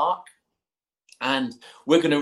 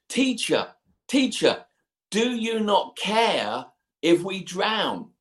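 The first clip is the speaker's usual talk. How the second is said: panicked plea; 5 semitones higher, slower than usual. Acted. Disciples wake Jesus in storm.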